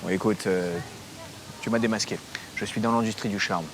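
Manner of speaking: put-on French with a Russian accent. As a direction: speak like a Russian. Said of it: "avec un accent russe?".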